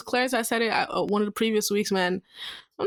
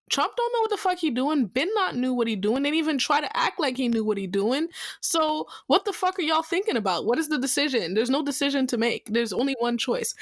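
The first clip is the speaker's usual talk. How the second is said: exasperated, higher-pitched mock speech; Barack Obama paraphrase; 6 semitones higher than usual. Former president on a sitting president, mock-exasperated. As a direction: lightly act out an incredulous political takedown. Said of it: "he basically said".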